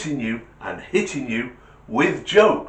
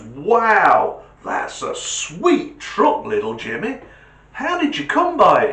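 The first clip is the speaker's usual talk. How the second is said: friend voice; 4 semitones higher, 5 dB louder than usual. Acted. Friend admiring truck.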